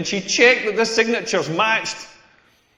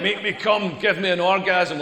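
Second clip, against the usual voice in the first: Scottish man voice. Retold or imitated. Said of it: "why she sounds like a Scottish man".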